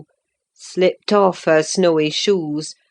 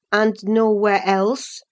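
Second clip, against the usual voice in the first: demanded; 4 semitones higher than usual. Acted. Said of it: "I demanded".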